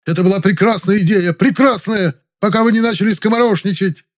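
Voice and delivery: very high, loud furious outburst; seething shout; boiling over. Acted. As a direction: explode in offended rage. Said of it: "Завадский вскипел".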